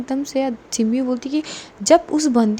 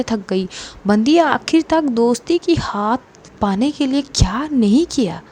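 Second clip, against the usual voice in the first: frustrated outburst. Acted. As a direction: plead with the elder sister, at wits' end. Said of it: "इतनी frustration में थी". (चिढ़कर ऊँची आवाज़ में)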